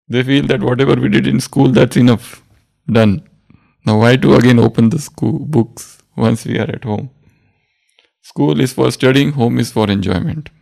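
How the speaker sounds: loud, dismissive mock student; lazy student. Lazy students brushing off homework, mock loud. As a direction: wave it off as done with school. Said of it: "That's what they think".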